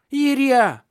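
high, loud drawn-out cry; long child's wail. A narrator's reading. Boy crying out the window for Iria. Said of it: "кричал он".

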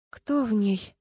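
ordinary delivery

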